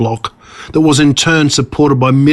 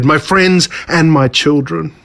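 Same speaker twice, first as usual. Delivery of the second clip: triumphant villain; 3 semitones higher than usual. Acted. Villain greets the ants.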